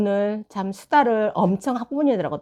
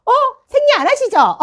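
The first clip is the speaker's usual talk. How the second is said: asked through laughter, much higher and louder; laughing question; 7 dB louder than usual. Retold or imitated. Mother teasing the teacher on the phone, laughing. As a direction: giggle out the cheeky question.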